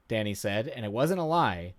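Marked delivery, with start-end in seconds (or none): none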